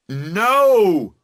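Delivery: high, loud, short shout. A narrator's reading. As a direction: rower shouting back to Emily. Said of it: "you shout".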